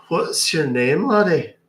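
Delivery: booming Irish brogue; leprechaun. Acted. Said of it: "I'm a leprechaun".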